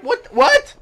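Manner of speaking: high, loud mock outrage; outraged commentators. Commentators cursing the traitor, hammed-up outrage. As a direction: build from shocked squeak to cursing yell. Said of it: "The commentators are like".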